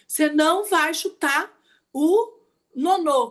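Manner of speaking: slow, firm mock warning to a little brother; stern big sister scolding. Teacher retelling how she scolded her little brother, slow and stern. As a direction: lay down the law slowly, like a strict older sister. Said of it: "E falava assim".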